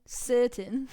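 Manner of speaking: lightly imitated Australian accent; Australian-sounding. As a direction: repeat "certain" with an Australian twang. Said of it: "that was very Australian".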